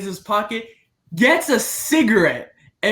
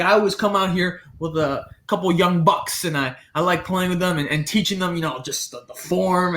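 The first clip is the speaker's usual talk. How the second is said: lightly imitated Boston golfer; fake Boston accent. Older golfer offering to teach youngsters, light Boston accent. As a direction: chat away with a hint of put-on Boston. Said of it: "the fake Boston accent".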